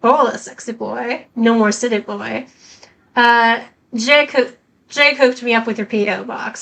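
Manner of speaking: hammed-up Southern accent, barely there; terrible Southern accent. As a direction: read the letter in a bad Southern accent. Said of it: "summon my terrible southern accent".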